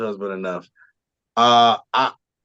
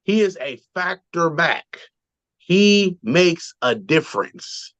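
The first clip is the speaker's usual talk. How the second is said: slow, punched-out analyst pronouncement; Merrill Hodge; 4 semitones higher, slower than usual. Retold or imitated. Host praising a running back in a slow, emphatic mock-analyst voice. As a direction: lightly imitate an analyst, spacing out each word with weight. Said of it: "in my Merrill Hodge voice".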